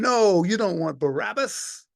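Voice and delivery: high, urgent pleading; the centurion protests to the crowd: high pleading. Acted. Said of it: "I'm going".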